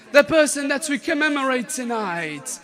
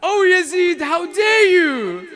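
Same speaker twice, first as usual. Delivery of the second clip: loud, defiant, cutting accusation; fierce rebuke; 5 semitones higher, 5 dB louder than usual. Acted. Zainab shouting down Yazid in his court, furious. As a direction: throw the outrage back at him.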